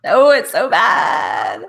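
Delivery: stretched-out cringing exclamation; embarrassed outcry. Real, not acted. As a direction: groan it out, embarrassed by your own accent. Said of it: "Don't make me do it again".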